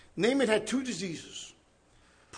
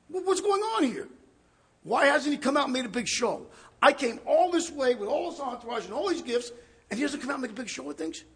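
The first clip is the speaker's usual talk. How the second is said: offended Naaman; 3 semitones higher than usual. Acted.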